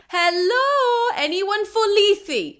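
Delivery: high, loud ferryman's call for passengers. Retold or imitated. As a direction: hawk the ride like a bored ferryman. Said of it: "Charon ... is like".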